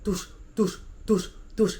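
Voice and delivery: rolling sound effect. Retold or imitated. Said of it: "it was like".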